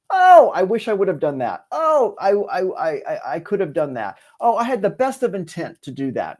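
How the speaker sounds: a hint of a whiny regretful person; mildly mock the would-have-could-have crowd; lightly voiced wistful excuse-maker; regretful wishful thinker. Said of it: "we've all heard people say that".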